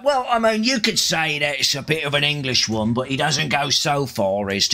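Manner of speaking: English accent sliding into South London; chatty South London accent. Shown as a demonstration. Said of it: "if you're really talking South London".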